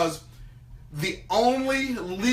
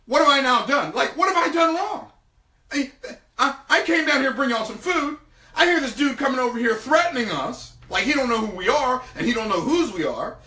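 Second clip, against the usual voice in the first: higher, laughing, wounded David; indignant David; 4 semitones higher than usual. Acted. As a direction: play David offended and amused.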